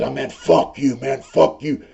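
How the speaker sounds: mock butt-hurt. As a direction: imitate a sore, offended inmate cursing back. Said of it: "this dude got butt hurt".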